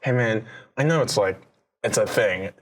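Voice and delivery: laid-back buddy tone to the guard; easygoing, offhand ask; casual bro talk. Shown as a demonstration. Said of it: "You're talking like this".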